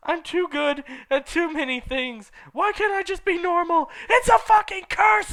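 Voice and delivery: high, rising to loud; building shout. Acted. Heroine storming off, building high angry shout. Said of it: "I shouted".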